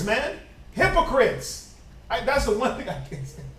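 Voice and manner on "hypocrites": drawn out slow Hypocrites; slow stress. Shown as a demonstration. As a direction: spell out Hypocrites slowly.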